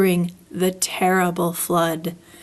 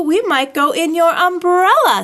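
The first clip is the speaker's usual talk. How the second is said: higher, louder, the line finally landing; building emphasis; 8 semitones higher, 6 dB louder than usual. A narrator's reading. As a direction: announce it as the big idea at last.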